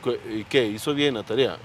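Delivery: a light hint of a stern father; authoritarian father. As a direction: question like a demanding dad. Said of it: "nos sale el papá autoritario". (un leve papá autoritario)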